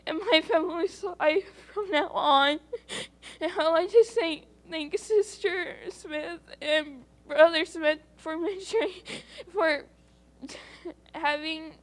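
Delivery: holding back tears, grateful; tearful thanks. Real, not acted. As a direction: voice catching with real tears while thanking. Tearful thanks in church testimony.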